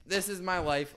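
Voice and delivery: high and loud, a hammed-up sob of dread; mock crying panic. Drunk kid sure he is dying, loud mock-tearful wail. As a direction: wail it like the end of the world. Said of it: "I'm still crying".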